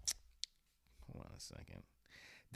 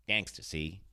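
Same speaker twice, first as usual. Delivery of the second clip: put-on louder old-movie mobster; mock gangster; 4 semitones higher, 7 dB louder than usual. Showing thirties gangster talk, mock mobster voice. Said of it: "They gotta say".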